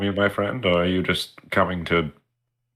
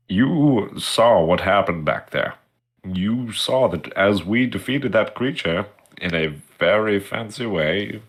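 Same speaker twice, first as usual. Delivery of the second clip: nose plugged with tissue; tissue up one nostril; 2 semitones higher, slower than usual. Real, not acted. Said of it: "I'm putting tissue in my nose".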